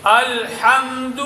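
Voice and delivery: slow الحمد with lam and meem held closed; no qalqalah. Shown as a demonstration. Teacher models it for pupils to repeat, slow and unbounced. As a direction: draw out الحمد without bouncing lam or meem. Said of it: "لام اور میم میں قلقلہ نہیں ہوگا".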